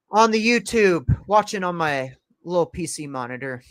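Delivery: strained, tired voice; losing voice. Real, not acted. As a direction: voice starting to give out. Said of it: "I am starting to lose my voice".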